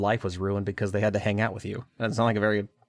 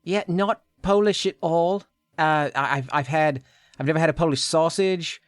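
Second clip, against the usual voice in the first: put-on alien girl voice; 5 semitones higher, 3 dB louder than usual. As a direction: play the alien girl from another planet. Voices Eve in the roleplay.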